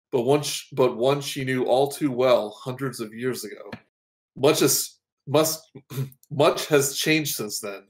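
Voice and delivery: even, measured storyteller read; narrating a hero's backstory; story narration. Acted. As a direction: set the scene like a book's opening.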